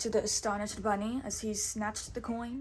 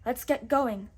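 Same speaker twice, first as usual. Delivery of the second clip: shouted; 2 semitones higher, 5 dB louder than usual. Acted. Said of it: "shouted Robin".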